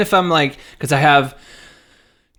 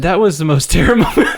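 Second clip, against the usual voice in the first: laughing quote; 4 dB louder, faster than usual. Retold or imitated. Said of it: "And she said".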